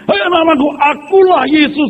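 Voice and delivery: hammed-up divine claim; mock prophet voice. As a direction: intone it like a fake oracle. Mocking false prophet.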